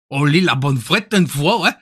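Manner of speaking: mock Belgian, lifting at the end; Belgian accent. Shown as a demonstration. Streamer demonstrating Belgian catchphrases, Belgian accent. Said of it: "Après, le belge, c'est".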